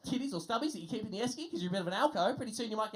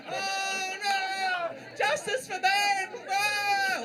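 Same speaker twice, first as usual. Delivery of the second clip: higher, louder wailing protest cry; mock protest cry; 10 semitones higher, 5 dB louder, much slower than usual. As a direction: play the aggrieved protester.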